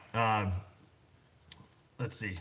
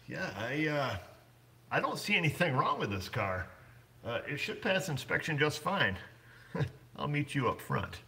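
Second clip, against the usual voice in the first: a lightly voiced, slightly higher, easygoing inspector; imitating the inspector; 5 semitones higher than usual. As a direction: play the shady inspector waving the car through. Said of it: "he looks like this and he says".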